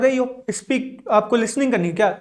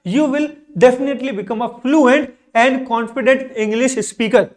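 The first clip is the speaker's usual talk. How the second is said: drawn-out, word by word; slow motivational promise to learners; very slow, emphatic; much slower than usual. Shown as a demonstration. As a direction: spell out each word so it sinks in. Teacher stresses motivational English line.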